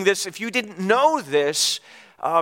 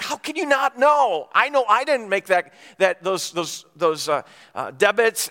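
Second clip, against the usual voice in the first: upset. Retold or imitated. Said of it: "And I'm all upset with her".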